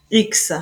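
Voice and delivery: CH before S said as X, like ks; pronounced X. Shown as a demonstration. Teacher models CH before S as ks. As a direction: say the letters as a crisp ks sound. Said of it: "on le prononce".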